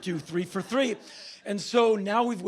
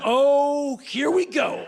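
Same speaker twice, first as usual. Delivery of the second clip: knowing excitement; 7 semitones higher, 6 dB louder, much slower than usual. Retold or imitated. Woman reacting to his trip.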